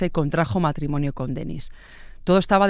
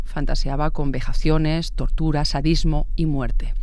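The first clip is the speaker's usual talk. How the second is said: slow, grave listing. Acted. Listing the killer's dark fantasies.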